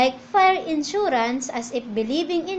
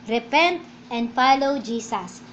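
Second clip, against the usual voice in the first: slow, weighty "Repent and follow Jesus"; slow emphatic quote; 3 semitones lower, slower than usual. Shown as a demonstration. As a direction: lean on "Repent", slowly. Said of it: "Sabi po". (mabagal at mariing pagbigkas)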